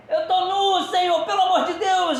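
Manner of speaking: high, loud flustered laugh; embarrassed laughing cry. Retold or imitated. Peter flustered at being naked, laughing high.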